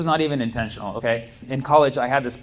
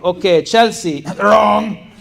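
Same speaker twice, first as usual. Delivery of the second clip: louder, higher mock professor calling out wrong answers with laughs; stern professor; 7 semitones higher, 8 dB louder, much slower than usual. Professor going over answers in front of class, mock loud shaming. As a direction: publicly shame each student's answer. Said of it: "So he was like".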